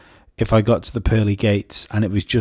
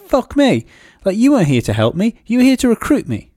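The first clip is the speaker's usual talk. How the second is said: outraged realisation; 11 semitones higher, 4 dB louder than usual. Retold or imitated. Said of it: "they're thinking".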